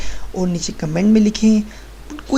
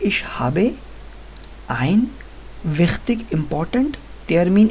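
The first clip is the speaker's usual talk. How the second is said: slow model sentence; 3 dB quieter, much slower than usual. Shown as a demonstration. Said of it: "तो आप क्या बोलेंगे".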